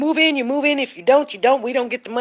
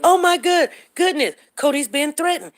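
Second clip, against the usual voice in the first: exaggerated scandalised cry, pitched up; mock alarm; 4 semitones higher than usual. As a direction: imitate people getting worked up. Mimics twisting into alarm.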